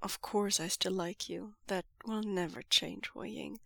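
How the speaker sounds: soft fond reassurance; tender and steady; a touch of fond softness. Acted. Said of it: "voice fond".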